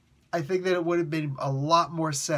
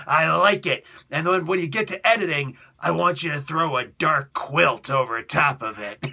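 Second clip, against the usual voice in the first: loud gruff approval; boss approving; 5 dB louder than usual. Retold or imitated. Boss ordering the darkness, loud. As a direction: bellow the orders.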